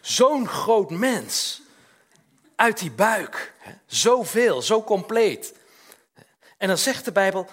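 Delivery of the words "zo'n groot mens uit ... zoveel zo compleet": high, loud and very slow awe; amazed. Retold or imitated. Grandfather seeing the newborn, loud drawn-out awe. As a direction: stretch out the wonder of a newborn. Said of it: "dan denk je".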